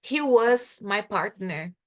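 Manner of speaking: he was my partner said slowly with stress on was; slow example, was stressed; example sentence. Shown as a demonstration. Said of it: "como o substantivo".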